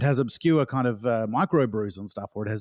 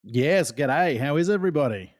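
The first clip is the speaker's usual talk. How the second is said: extra Aussie; 3 semitones higher than usual. Real, not acted. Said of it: "just so I sounded more Aussie".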